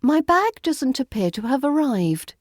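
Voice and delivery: understated polite complaint; calm RP to a baggage handler; vague and polite. Shown as a demonstration. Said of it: "explain the situation vaguely and politely".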